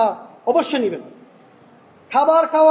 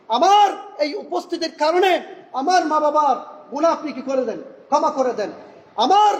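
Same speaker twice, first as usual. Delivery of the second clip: earnest supplication, a little higher; model prayer; 3 semitones higher than usual. Shown as a demonstration. Preacher voicing a model prayer for the congregation, earnest. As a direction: pray it sincerely to Allah. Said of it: "আপনাকে ভালো ভালো নিয়ত করতে হবে".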